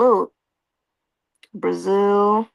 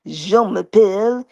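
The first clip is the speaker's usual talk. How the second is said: deep voice; 3 semitones lower, slower than usual. Retold or imitated. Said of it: "He put a deep voice on".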